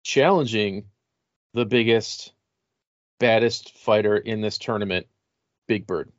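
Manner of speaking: hyped announcer calling the challenger; monster truck ad. Acted. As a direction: sell the big fight.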